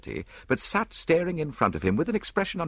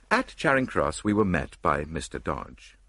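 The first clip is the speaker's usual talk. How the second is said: ordinary delivery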